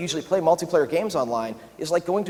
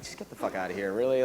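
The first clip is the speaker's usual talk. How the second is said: scoffing disbelief; 6 semitones lower, 7 dB quieter than usual. Retold or imitated. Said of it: "I'd be like".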